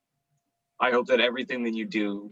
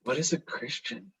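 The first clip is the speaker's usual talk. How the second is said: innocent Harry; 6 dB quieter than usual. Acted. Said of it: "Harry queried innocently".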